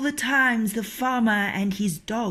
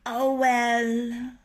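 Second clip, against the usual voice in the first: sigh; 3 semitones higher than usual. A narrator's reading. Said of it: "sighed Chanticleer".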